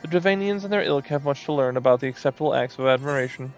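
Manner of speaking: lightly voiced preening moogle; a hint of a pompous little moogle; vain moogle voice. Reads moogle dialogue aloud.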